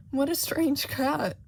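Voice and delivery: loud, slow royal pronouncement; booming king. Acted. King examining the cat, loud and pompous.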